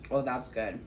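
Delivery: normal talking voice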